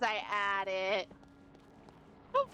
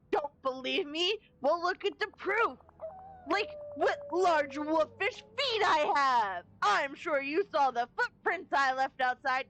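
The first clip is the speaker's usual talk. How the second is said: mock wolf boasting; 5 semitones higher than usual. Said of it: "very rough on your throat".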